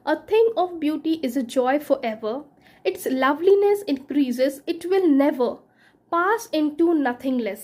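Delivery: slow, measured recitation of a verse; unhurried verse recital; slow poem reading. Acted. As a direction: savour each line of the poem. Reads Keats verse aloud.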